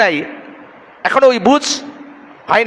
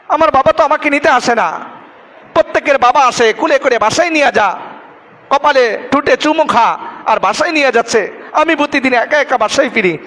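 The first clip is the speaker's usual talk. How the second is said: higher-pitched, mildly acted child's plea; retold tearful plea; 6 semitones higher than usual. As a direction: plead like a hurt child, lightly acted. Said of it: "চোখের পানি ফেলায় বলতেছে".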